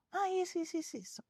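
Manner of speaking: put-on high, soft child's grumble that fades away; soft, high-pitched mock complaint; imitated complaining child. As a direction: lightly mimic a child listing grievances, trailing off.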